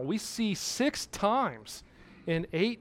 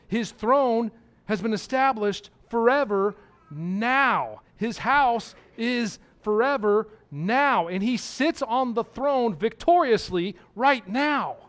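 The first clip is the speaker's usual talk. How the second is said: rising preaching fervor; 4 semitones higher, 4 dB louder than usual. Acted. Preacher proclaiming Christ's reign to the congregation, fervent. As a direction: build to a proclaiming climax.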